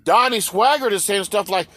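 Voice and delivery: ordinary talk, nothing marked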